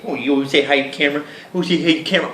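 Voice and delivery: fast, high cooing. Real, not acted. Teasing the dog about the camera, fast and cooing. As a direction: gush at the dog.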